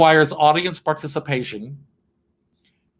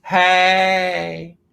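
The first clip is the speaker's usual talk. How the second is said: camp owl; 3 semitones higher than usual. Pretend. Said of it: "what does a gay owl say".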